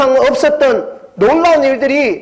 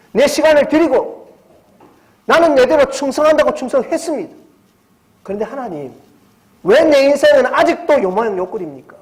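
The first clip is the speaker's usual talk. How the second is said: complaining believer; 3 semitones higher than usual. Acted. Believer whining to God about his life, pleading complaint. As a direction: plead like a wronged churchgoer.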